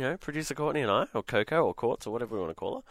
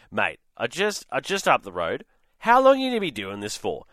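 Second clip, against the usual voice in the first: mock angry neighbour. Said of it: "he was noticeably angry and a bit aggressive".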